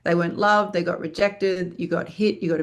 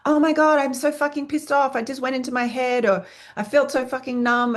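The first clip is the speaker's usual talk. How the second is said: self-berating actor; 5 semitones higher than usual. Retold or imitated. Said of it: "I often hear actors berating themselves going".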